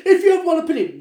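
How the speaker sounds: high laughing rant. Real, not acted. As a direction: laugh through the words.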